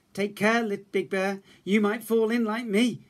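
little cub warning Big Bear. A narrator's reading. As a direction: warn Big Bear kindly. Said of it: "Little Bear said".

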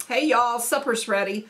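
mild Southern-accented call to supper; mock supper yell. Shown as a demonstration. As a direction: call the family in, only half raising your voice. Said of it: "when I'm yelling for supper".

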